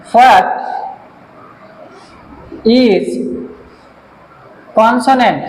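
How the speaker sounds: isolated words with long gaps; word-by-word dictation. Real, not acted. Teacher writing out the next question, word-by-word dictation. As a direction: say each word as you write it.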